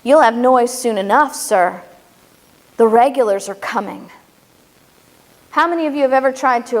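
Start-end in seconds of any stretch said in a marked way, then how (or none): 0.0-4.1 a hint of a grim rider's threat; grim warning. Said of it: "He looked at the sentinel and said".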